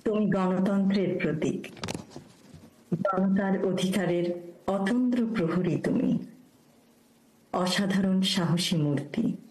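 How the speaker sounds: measured tribute verse, a pause after each phrase; poem recitation. Acted. Speaker dedicates a birth anniversary poem to an honoured leader, formal recitation. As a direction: recite it as a formal ode, line by line.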